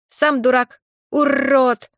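loud high squawk of insults; shouting. Acted. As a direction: yell it out like a cheeky parrot. Parrot Grisha squawks insults.

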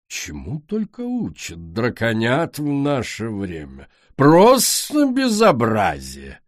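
slow, haughty, rising to indignant; grande dame. Acted. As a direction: scold like an offended queen. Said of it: "надменно произнесла Пурпур".

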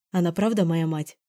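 ordinary delivery, nothing marked

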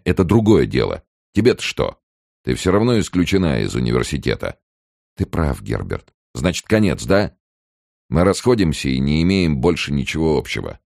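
Billing fretting about his name in the paper; nervous student Billing. Acted.

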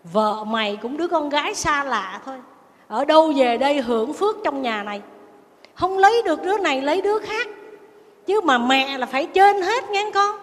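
mock an overbearing mother laying down the law; scolding mother-in-law. Mother lecturing her married son about his wife, scolding.

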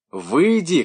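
high, loud yell; husband yelling through the door; husband shouting. A narrator's reading. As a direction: yell at her to come out. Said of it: "кричал муж".

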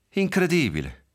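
a bitter, disgusted "Incredibile". Acted. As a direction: spit it out with bitter disbelief. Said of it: "disse con voce amara".

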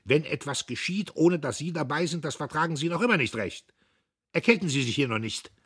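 loud, high, fast jeering; loud mocking taunt; mocking sneer. A narrator's reading. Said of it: "Diederich höhnte".

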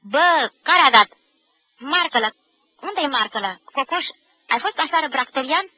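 loud, rowdy classroom yelling; shouting nicknames. A narrator's reading. Boys yelling nicknames across the classroom, boisterous shouting. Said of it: "își strigau poreclele".

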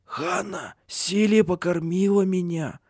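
thin-on-power, high-pitched excitement; excited, near tears. A narrator's reading. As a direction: marvel at it, almost crying. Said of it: "возбуждённо сказал Гриммор. Он был так потрясён".

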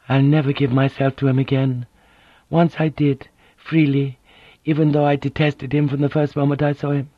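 a dignified woman, hurt and firm; proud wounded noblewoman. Acted.

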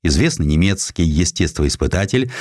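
ordinary delivery

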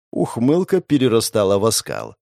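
usual speaking voice

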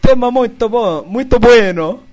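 Italian accent. Shown as a demonstration. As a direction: read it like a fake Italian. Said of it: "sotaque italiano fajuto de estereótipo".

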